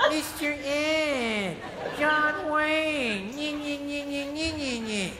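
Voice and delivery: slow, dopey heckler voice drawn out with laughter; mocking stupid idiots. Ventriloquist mocks the audience as stupid hecklers, dopey voice. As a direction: mimic dumb audience members yelling at a puppet. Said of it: "here's my impression of a bunch of stupid idiots".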